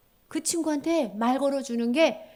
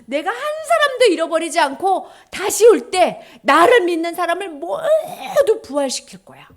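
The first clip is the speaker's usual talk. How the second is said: voice of Jesus; 7 semitones higher, 10 dB louder than usual. Acted.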